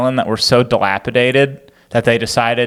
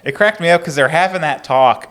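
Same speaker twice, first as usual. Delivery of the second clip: a bit higher, laughter through the words; laughing; 5 semitones higher than usual. Real, not acted. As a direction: talk while still chuckling. Amused by the story.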